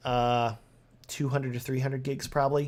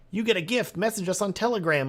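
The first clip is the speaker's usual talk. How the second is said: mock spammer voice; 6 semitones higher than usual.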